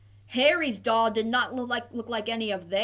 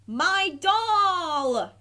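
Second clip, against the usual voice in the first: higher, louder cry of joy; happy yell; 7 semitones higher, 4 dB louder than usual. A narrator's reading. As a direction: shout it out, overjoyed to find him. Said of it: "yelled Harry happily".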